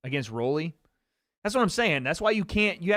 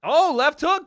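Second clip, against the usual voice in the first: much higher and louder, real excitement; excited shout; 12 semitones higher, 9 dB louder, slower than usual. Real, not acted. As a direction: yell it as the punch lands. Cheering on his fighter live.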